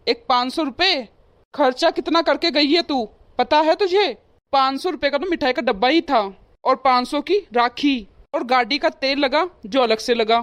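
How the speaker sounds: heated complaining rant; scolding. Acted. Husband scolds wife over in-laws' stingy Rakhi gift, irritated. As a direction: scold her about the wasted money.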